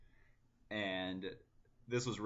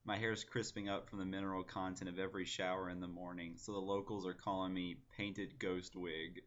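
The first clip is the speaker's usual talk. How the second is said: even, measured recital of a poem; poem reading. Acted. Poet reading own poem to online viewers, measured recital. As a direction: read the verse out steadily and evenly.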